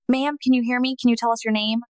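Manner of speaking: urgent call to a waking patient; loud and urgent. Retold or imitated. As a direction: medic calling to a barely conscious patient, loud and urgent. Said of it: "loud and urgent".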